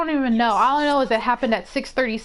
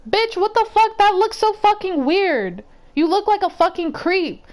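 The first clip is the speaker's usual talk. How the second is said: higher-pitched, exasperated telling-off; indignant retort; 6 semitones higher than usual. Retold or imitated. Woman reacting to a man's creepy question, indignant. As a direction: let rip at him in mock confrontation. Imagined angry retort to the man.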